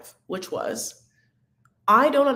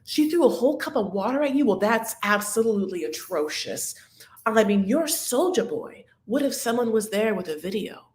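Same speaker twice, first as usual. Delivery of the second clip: mock shocked friend; 3 semitones higher than usual. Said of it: "friend's like".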